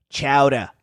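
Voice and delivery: Boston "Chowder" with the ER dropped to AH; low, broad Boston accent. Shown as a demonstration. Showing how Boston says it, mock Boston accent. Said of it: "In Boston, they just like".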